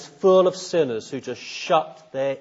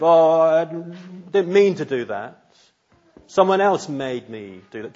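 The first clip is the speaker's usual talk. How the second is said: defensive excuse; 4 semitones higher, 5 dB louder than usual. Retold or imitated. Preacher mimics a defensive sinner, in a whiny mock excuse. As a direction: play the defensive sinner dodging blame. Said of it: "Do you become all defensive?".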